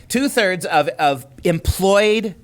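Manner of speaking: "Two-thirds" punched, then "employed" drawn out slowly; stress on Two-thirds. Real, not acted. Co-host repeating the survey figure, deliberate emphasis on "Two-thirds" and "employed". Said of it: "emphasizing that number again and again".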